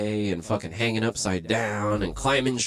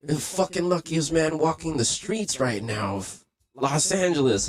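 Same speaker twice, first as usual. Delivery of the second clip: amazed friend; 7 semitones higher, slower than usual. Retold or imitated. Friend telling him he's the luckiest man in LA, high and amazed. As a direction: marvel at his dumb luck. Friend marvels at his luck.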